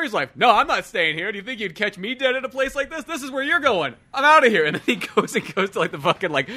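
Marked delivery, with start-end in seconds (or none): 0.4-4.6 high, loud haughty brush-off; mock snooty brush-off. Friend voicing the partner ditching him, haughty and high. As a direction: sneer it and walk away. Retelling movie dialogue.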